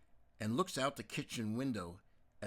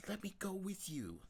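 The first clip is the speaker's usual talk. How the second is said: tearful; 9 semitones higher than usual. Acted. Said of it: "she says tearfully".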